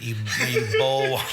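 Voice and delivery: "boil" insisted on as "bole"; southern drawl. Real, not acted. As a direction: stick to a southern "bowl" for "boil". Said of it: "there's that southern drawl".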